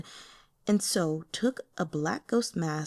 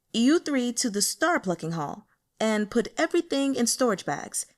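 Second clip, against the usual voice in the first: bossy subordinate; 3 semitones higher, 3 dB louder than usual. Acted. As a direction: play the petty underboss who owns the place. Subordinate barking orders at underlings.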